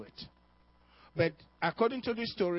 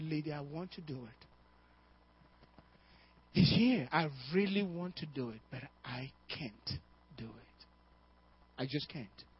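tearful. Retold or imitated. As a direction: hold back tears as you refuse her. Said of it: "he looked at her with tears".

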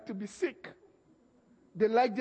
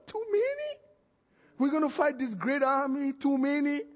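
incredulous Gideon; 5 semitones higher than usual. Acted. Gideon balks at fewer men.

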